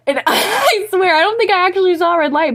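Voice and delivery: high, laughing confession; laughing disbelief at herself. Real, not acted. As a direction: giggle it out, half embarrassed.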